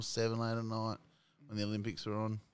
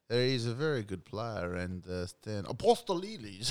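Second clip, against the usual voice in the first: Les Murray impression; 2 semitones higher, slower than usual. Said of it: "Les Murray used to do his, like, Australian accent".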